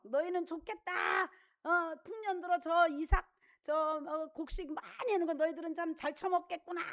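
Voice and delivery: mock bitter grumble. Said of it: "막 화내면서 죽은 할아버지".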